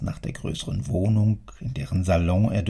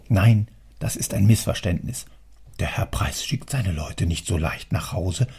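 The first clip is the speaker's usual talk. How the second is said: put-on old clerk puzzling to himself, half whispered; baffled muttering. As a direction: argue it out with yourself, disbelieving.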